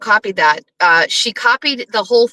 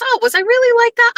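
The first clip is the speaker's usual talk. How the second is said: much higher, mock-surprised question; mock surprised Aiden; 11 semitones higher, faster than usual. Imitating Aiden reacting to the courtroom drawing, high and surprised. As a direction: lift into a high, startled imitation.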